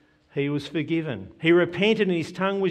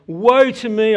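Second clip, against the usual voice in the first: loud, raised cry of woe; anguished cry; 5 semitones higher, 8 dB louder than usual. Acted. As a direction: cry it out like a prophet undone. Preacher voicing Isaiah's lament.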